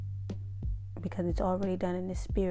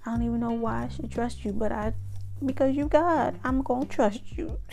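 pretend prayer; 3 semitones higher than usual. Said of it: "even when you're mad".

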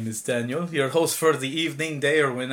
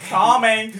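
laughing mock moan; 5 semitones higher, 8 dB louder than usual. Joking moan amid laughter.

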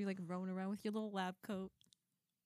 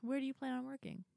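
condescending; 4 semitones higher than usual. Real, not acted. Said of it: "That sounded very condescending".

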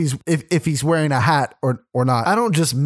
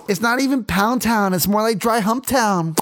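higher-pitched mock argument through a full mouth; mimicked mouth full; 5 semitones higher than usual. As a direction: put on a higher voice, mouth occupied. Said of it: "sucking his wiener while arguing with me".

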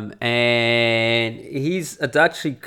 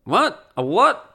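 higher-pitched, questioning double take; mock bafflement; 8 semitones higher, slower than usual. Normal offline person hearing about internet outrage, baffled. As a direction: act totally clueless, voice jumping up. Voicing normal people who are oblivious.

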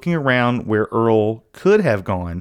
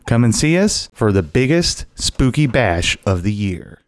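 lightly lowered promo voice; ad read; 3 semitones lower than usual. Acted. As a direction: pitch the event like an ad.

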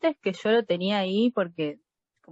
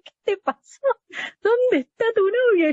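much higher, rising to loud worry; worried mother; 12 semitones higher, 4 dB louder than usual. Retold or imitated. Mother finds her daughter crying and asks, alarmed. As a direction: play the alarmed mom finding her crying.

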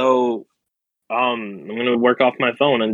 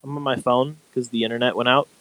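quiet, over a phone line; quiet but clear. Real, not acted. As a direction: speak softly through a phone mic. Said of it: "Why do you sound so quiet?".

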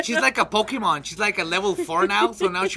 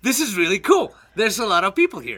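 imitated delight at the crowd; drunkenly sociable. Imitating a friend who turns social when drunk, pleased enthusiasm. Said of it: "when she's drunk, she's like".

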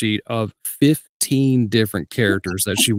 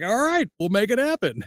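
game agreement; 9 semitones higher, 4 dB quieter than usual. Retold or imitated. Retold game acceptance of more roles.

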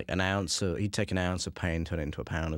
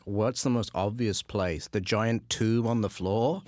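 mock puzzled; 4 semitones higher, 5 dB louder, slower than usual. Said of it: "I remember talking with Ellen ... and going, like".

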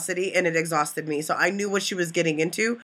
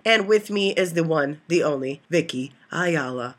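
announcer intro; slower than usual. Pretend. Introducing co-host grandly.

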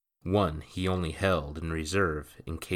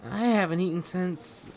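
put-on much higher, fast boyish voice; a startled lad blurting out; young boy Jacques; 13 semitones higher than usual. A narrator's reading.

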